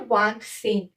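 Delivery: वांत सिंह as "vant" plus nasal "sank"; French pronunciation. Shown as a demonstration. Teacher modelling twenty-five in French, वांत सिंह pronounced the French way. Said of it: "क्या बोलते हैं?".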